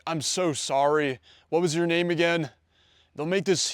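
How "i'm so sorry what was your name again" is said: sorry and flustered, rising a touch on the question; over-apologetic. Retold or imitated. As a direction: make a huge deal of forgetting her name. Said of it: "forget the girl's name".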